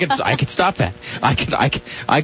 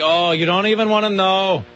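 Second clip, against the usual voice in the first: mock whiny voice; 6 semitones higher, slower than usual. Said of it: "You tell them, it's like".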